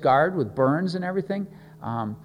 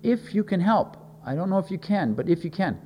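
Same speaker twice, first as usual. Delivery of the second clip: higher-pitched, mildly unsure plea; doubtful; 3 semitones higher than usual. Acted. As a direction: voice a touch of doubt about being helped. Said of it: "that implies doubt".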